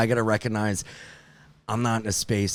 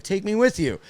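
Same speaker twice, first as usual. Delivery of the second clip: put-on girlfriend voice; 8 semitones higher than usual. Girlfriend voiced in retold call.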